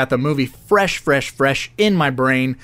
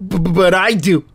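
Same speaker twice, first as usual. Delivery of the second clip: higher-pitched stuttering kid impression; mock stutter; 5 semitones higher than usual. Acting the stuttering kid from the movie, mock stutter. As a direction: trip repeatedly on the first sound, pitched up. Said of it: "At least he doesn't stutter".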